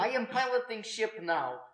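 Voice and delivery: put-on high, loud thick Russian accent; gruff Russian villain voice. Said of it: "in a thick Russian accent".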